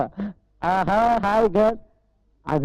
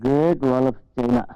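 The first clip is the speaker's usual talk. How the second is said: comic low drawl; 9 semitones lower, much slower than usual. Acted.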